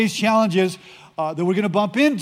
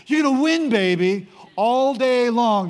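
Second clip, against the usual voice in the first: hyped-up assurance; 2 semitones higher than usual. Acted. Preacher as God assuring Joshua of victory, hyped-up assurance. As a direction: cheer him on like a coach, drawing out the last words. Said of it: "It's the Rod Collins version".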